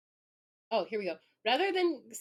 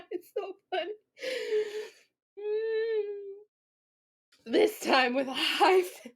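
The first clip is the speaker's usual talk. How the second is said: tearful, breaking voice after real laughter; laughing to tears; 8 semitones higher, much slower than usual. Real, not acted. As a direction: still helpless with mirth, squeezing words out. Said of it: "I'm laughing so hard I might cry".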